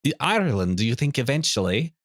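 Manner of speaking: put-on a muddled Irish accent, half Scottish; invented Irish-Scottish accent, hammed-up; mock Irish accent. Host asks cohost about moving abroad, in a muddled Irish accent. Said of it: "this is not an Irish accent".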